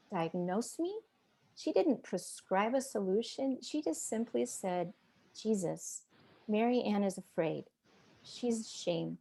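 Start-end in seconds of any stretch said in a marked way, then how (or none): 5.3-9.2 soft, measured retold prayer; tender, unhurried plea; simple gentle prayer. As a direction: pray quietly on someone's behalf.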